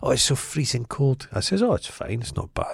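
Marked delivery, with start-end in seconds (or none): 0.0-1.3 put-on Scottish accent with a touch of American. Retelling what an old lady said while the speaker was working, in a posh American-tinged Scottish accent. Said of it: "She had this kind of posh American".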